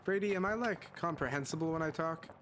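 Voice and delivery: swallowed voice. Real, not acted. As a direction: talk as if you swallowed a golf ball. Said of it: "I sound like I swallowed a golf ball".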